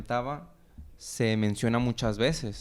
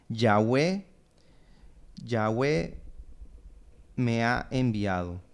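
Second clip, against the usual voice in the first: measured quote with long pauses; deliberate, spaced-out proclamation; solemn quoted declaration; slower than usual. Retold or imitated. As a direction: let each phrase of the quote stand alone. Quotes God's words to Israel.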